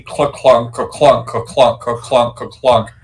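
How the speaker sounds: evenly chanted clunk sounds; rhythmic run of spoken clanks; imitated clunking steps. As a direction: tap out each clunk like heavy footfalls. Imitating Beatrice's running noise.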